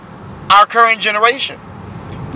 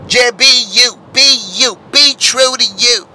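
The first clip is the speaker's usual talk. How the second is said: dismissive society voice. Retold or imitated. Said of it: "a society that says".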